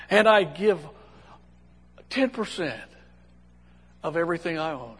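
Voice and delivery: lightly mocked pious boast; self-satisfied prayer tone. Pharisee lists his giving to God, mock self-satisfied. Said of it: "in that tone to God".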